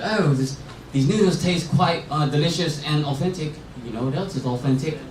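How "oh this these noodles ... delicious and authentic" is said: politely hesitant imitation of an English friend, accent wobbling Australian; mock English-Australian accent. English friend praising noodles to the waitress, mock English-Australian accent. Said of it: "the accent you were doing was clearly Australian".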